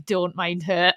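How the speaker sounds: conspiratorial aside. Retold or imitated. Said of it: "he was like".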